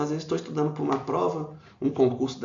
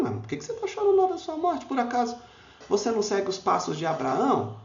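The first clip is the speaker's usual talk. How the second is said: much higher, quick voice of the questioning disciples; puzzled disciples; 8 semitones higher than usual. Acted. Disciples pressing the weeping rabbi about his death, high and quick.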